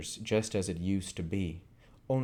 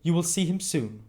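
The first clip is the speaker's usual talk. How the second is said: put-on higher, gentle young lady's voice; gentle Rose; 10 semitones higher, 5 dB louder than usual. Rose comforting Oliver, gentle and higher. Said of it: "gently taking his folded hands".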